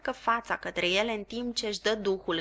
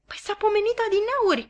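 higher, fast, courteous; polite; 13 semitones higher, faster than usual. Acted. Joe politely trying again with his wife. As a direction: pipe up politely. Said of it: "începu iar Joe politicos".

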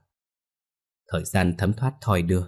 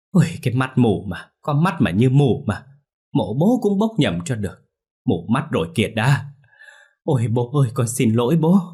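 high, louder grieving lament; self-reproaching lament; 4 semitones higher, 4 dB louder than usual. Acted. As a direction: berate yourself, then beg father's pardon. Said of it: "vả má mình bôm bốp để chửi".

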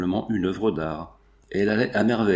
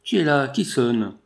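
higher, mildly raised voice; calling out; 3 semitones higher than usual. A narrator's reading. Maid calls to whoever rings at the gate, mildly raised voice. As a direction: call out lightly, as if across a garden. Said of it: "une voix cria du fond du jardin".

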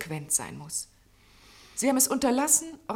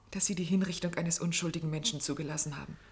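whispered reproach; 3 semitones lower, 5 dB quieter than usual. Acted. Secretary's quiet reproach.

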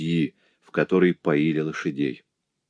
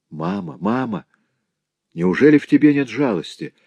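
high pleading cry; heartrending cry; 8 semitones higher than usual. Acted. Clara begs mother for pity, high heartrending cry. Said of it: "воскликнула Клара душераздирающим голосом".

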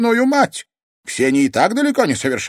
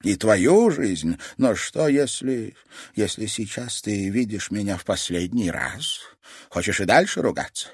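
solemn grandmother; 4 semitones higher, 5 dB louder than usual. Acted. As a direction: make her think this is goodbye.

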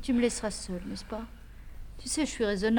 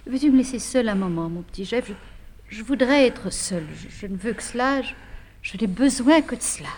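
louder and faster, pushing him away; exasperated plea; 4 dB louder than usual. Acted. Wife losing patience with fussing husband, exasperated. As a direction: snap at him to leave her alone. Repeats her plea, now insistent.

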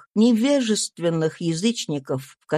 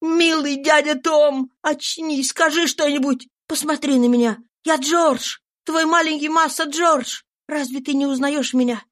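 put-on young George begging his dying friend to recognize him, higher tearful plea; pleading grief; 7 semitones higher than usual. A narrator's reading. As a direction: beg him to wake up.

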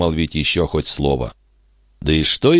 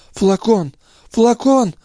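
ordinary delivery, nothing marked

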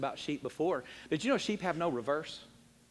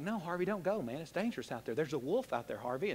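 soft pleading; 3 semitones lower, 6 dB quieter than usual. Retold or imitated. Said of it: "And you go like".

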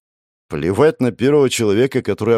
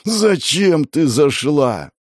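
drawn-out threatening question, higher and louder; slow menacing demand; 6 semitones higher, 3 dB louder, much slower than usual. A narrator's reading. Man pins the girl to the wall, demanding slowly and menacingly. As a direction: press her for the answer slowly and hard.

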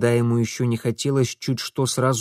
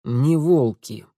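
dry scoff; slower than usual. A narrator's reading. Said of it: "хмыкнул Митя".

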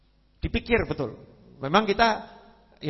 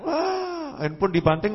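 mock crowd cry; 3 semitones higher, slower than usual. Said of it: "Banyak yang teriak".

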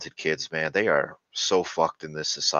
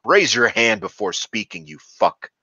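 loud, higher scolding yell; mock angry scolding; 4 semitones higher, 7 dB louder than usual. Teacher barking rules at a gifted kid, mock angry yell. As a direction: scold the kid at full volume.

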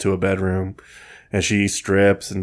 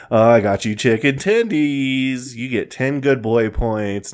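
mock baby talk; 3 semitones higher, slower than usual.

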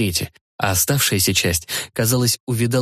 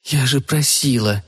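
reproachful; 3 semitones higher, slower than usual. Acted. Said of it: "упрекнула Маргарита".

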